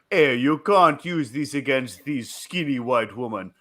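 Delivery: slow, imitating a thick African accent; a retold barracks chat in an imitated African accent. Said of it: "in his thick African accent".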